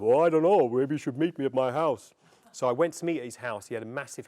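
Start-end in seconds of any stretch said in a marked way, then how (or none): 0.0-2.1 put-on big, loud, hesitant older filmmaker voice; Ray Harryhausen impression. Veteran filmmaker answers a student's request, loud imitated voice. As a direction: boom out a doubtful reply, raised in pitch at first. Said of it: "he said".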